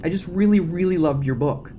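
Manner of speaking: breathless, high, fawning reporter; gushing fan. Acted. Debbie flatters Gale to get a minute, gushing high. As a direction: gush all over your idol.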